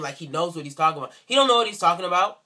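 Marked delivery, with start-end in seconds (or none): 1.2-2.4 indignant. Real, not acted. Indignant rant.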